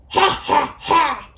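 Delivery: mock wolfish ha ha ha; snarled laugh. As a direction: sneer out a villain's laugh. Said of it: "he snarled".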